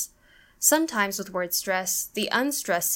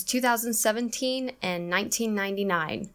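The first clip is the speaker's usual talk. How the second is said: TWO thousand sevenTEEN, NINEteen ninety-NINE; first and last stressed. Shown as a demonstration. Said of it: "first and last syllables of these years are stressed".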